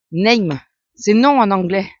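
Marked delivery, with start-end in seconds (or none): 0.1-0.6 light put-on English accent on "name"; mock English accent. Shown as a demonstration. Mocking her own English accent on "name". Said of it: "avec mon bel accent, euh, très anglais".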